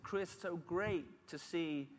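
put-on mild old lady praise at a wedding. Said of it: "an old lady, said".

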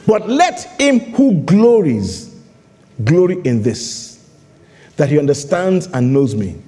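slow, emphatic Bible reading; measured reading with long pauses; solemn scripture reading. Real, not acted. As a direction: proclaim the verse phrase by phrase.

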